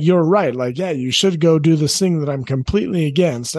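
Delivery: put-on a glib giving-in to the teen; wrong way to say you're right, said carelessly; caving in, giving up. Shown as a demonstration. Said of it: "I'm not saying, like".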